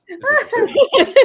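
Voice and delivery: high, slow, laughing through it. Real, not acted. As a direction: laugh out the words.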